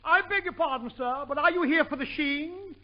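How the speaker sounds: a hint of a monocled snob; snooty clerk. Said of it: "spoke with a monocle in his throat".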